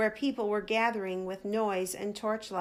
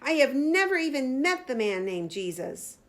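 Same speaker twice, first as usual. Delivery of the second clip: roaring; 4 semitones higher than usual. Retold or imitated.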